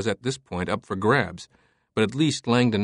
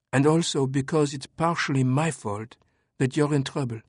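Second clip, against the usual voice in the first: French woman voice; 2 semitones higher than usual. Acted. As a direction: calmly lay out the facts as her. Sophie voiced.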